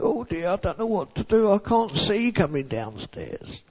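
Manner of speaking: put-on high, soft, tearful child voice; a little girl close to crying. A narrator's reading. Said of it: "And she began to cry".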